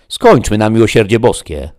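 loud, high plea to be done; exasperated cry. Acted. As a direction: cry out, out of patience. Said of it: "zawołał Sancho".

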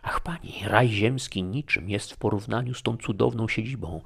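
high, rapturous outcry of wonder; admiring exclamation. Acted. Guest marvels at the princess's palace, exclaiming in awe. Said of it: "zawołałem".

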